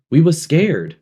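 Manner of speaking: high, loud fearful cry; scared. A narrator's reading. Piggy insisting to Ralph they were scared, high and loud. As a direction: push it out high and loud, frightened. Piggy pleading about the dance.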